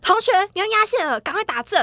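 high, loud alarmed yell at the student; loud high cry from the passenger seat; examiner's loud shout. Retold or imitated. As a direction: shout the warning like a panicked examiner. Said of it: "他喊超大声".

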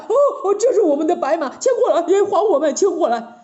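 excited, high-pitched fast yelling; rapid-fire clamour; Zhu Bajie. A narrator's reading. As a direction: shout out a demand for the horse. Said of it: "叫了起来了".

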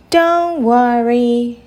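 slow, drawn-out soothing words; mildly reassuring maid. Acted. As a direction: gently stretch it out to comfort a child. Maid comforts the upset princess.

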